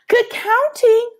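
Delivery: high, slow sing-song praise; drawn-out warm grandmother voice; grandmother's praise. Acted. Abuela praising Pablo's counting, slow and sing-song.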